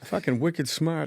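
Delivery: put-on slow, drawn-out Boston accent; mock Boston local. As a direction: stretch it out in Bostonese. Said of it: "Can you do a Boston accent?".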